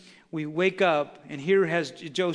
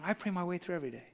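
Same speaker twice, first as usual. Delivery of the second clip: contented; 2 semitones higher, 8 dB quieter, much faster than usual. Retold or imitated. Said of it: "they're going".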